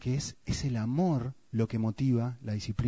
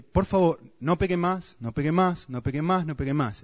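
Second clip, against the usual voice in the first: pleading God; 3 semitones higher than usual. Retold or imitated. God begging people to stop.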